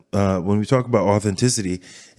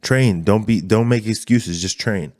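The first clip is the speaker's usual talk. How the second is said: lightly imitated motivational command, louder at first; C T Fletcher; 2 semitones higher, 4 dB louder than usual. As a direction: push them to train, easing off at the end. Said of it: "C T Fletcher was a big part of that because it was like".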